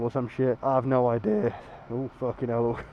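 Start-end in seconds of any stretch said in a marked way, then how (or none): 1.9-2.8 hoarse, croaky from being ill; rough scratchy sick voice. Real, not acted. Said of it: "Little croaky voice".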